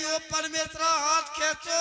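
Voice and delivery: wife shrieking at husband to pull his hand back; wife yelling. Retold or imitated. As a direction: cry out to pull the hand away. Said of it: "घरवाली चिल्लानी".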